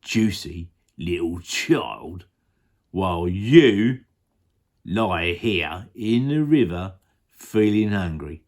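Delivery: slow, relishing crocodile voice; hungry crocodile. Acted. Crocodile thinking of a child to eat, slow and greedy. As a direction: draw out each juicy word slowly.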